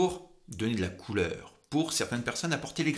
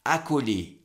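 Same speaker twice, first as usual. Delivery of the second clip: vocal fry. Shown as a demonstration. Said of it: "cet effet un petit peu crapaud".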